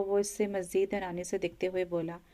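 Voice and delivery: plain reading voice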